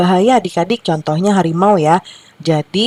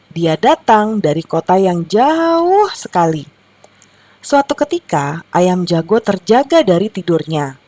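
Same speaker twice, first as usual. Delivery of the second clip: lilting storybook narration; reading to children; 3 semitones higher than usual. Acted. Teacher reads rooster tale to children, storytelling. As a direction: tell it as a children's tale, stretching key words.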